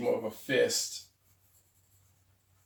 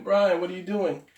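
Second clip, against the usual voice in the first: higher, louder playful mock yell; mock viewer scream; 6 semitones higher, 6 dB louder than usual. Viewers yelling at Brian about the off-camera drawing, mock yell. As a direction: yell it like an exasperated viewer, half joking. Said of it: "I know you were screaming".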